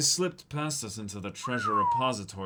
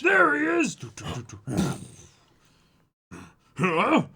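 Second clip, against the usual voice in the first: high, loud alarmed yell; shouting guard; 6 semitones higher, 8 dB louder, slower than usual. Acted. Guard spotting the intruder and shouting. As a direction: yell after the runaway.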